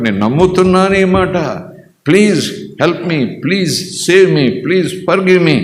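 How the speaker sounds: a sinner crying out for forgiveness; pleading prayer. Pretend. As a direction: beg God to save you, voice climbing.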